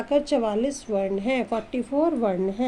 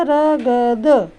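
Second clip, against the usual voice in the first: क ल श spaced out slowly and louder; letter by letter; 2 semitones lower, 5 dB louder, much slower than usual. Shown as a demonstration. Teacher spelling the word for children, slow and loud. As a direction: sound out each letter for the class. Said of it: "splitting the word into letters".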